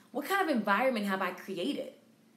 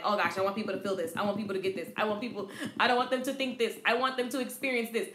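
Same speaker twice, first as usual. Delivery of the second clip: mock panic; 4 semitones lower, faster than usual. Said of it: "I be panicking".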